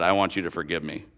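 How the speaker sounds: low, soft request for forgiveness; quiet and earnest; humble plea. Retold or imitated. Coworker asks to be forgiven.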